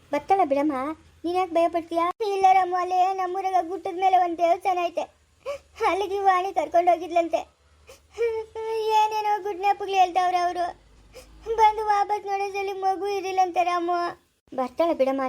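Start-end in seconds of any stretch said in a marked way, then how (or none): 2.3-14.0 tearful, worried telling; crying mother. Acted. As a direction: speak through tears. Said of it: "ನೀನ್ ಅಷ್ಟಕ್ಕೆಲ್ಲ ಅಳ್ತಾ ಇದೀಯಾ?". (ಅಳುತ್ತಾ ಹೇಳುವುದು)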